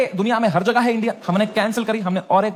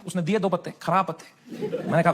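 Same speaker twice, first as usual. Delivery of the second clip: ordinary delivery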